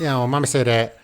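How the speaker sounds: lightly imitated Boston kid, dropped R's; a hint of mock New York accent; kids' New England accent. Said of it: "New England or a Boston or a Maine or a New York accent".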